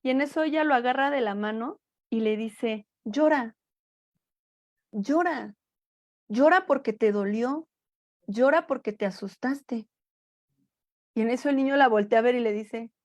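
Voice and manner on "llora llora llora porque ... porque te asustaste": calm and serious. Retold or imitated. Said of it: "muy tranquila, muy seria".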